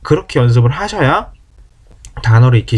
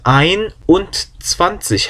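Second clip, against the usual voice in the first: careful enunciation; 5 semitones higher, much slower than usual. Shown as a demonstration. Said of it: "또박또박".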